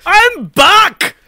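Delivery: put-on Scottish accent. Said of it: "your Scottish accent".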